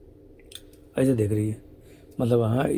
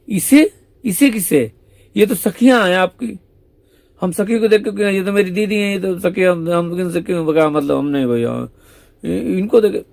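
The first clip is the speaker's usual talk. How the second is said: feigned innocence; 5 semitones higher, 3 dB louder than usual. Acted. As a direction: deny it sweetly, playing dumb. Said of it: "Radhe सखी बोली". (ऊँची आवाज़ में भोली बनकर सफ़ाई)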